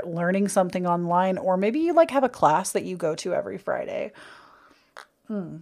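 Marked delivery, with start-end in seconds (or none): 5.3-5.6 mid-sip murmur; while sipping a drink. Real, not acted. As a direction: hum into a coffee mug. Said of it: "Sorry, I was taking a sip of my coffee".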